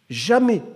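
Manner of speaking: Jamais said high and loud, falling hard; emphatic repeat. Shown as a demonstration. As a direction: hit "Jamais" as a firm final word. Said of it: "je ne l'oublie jamais".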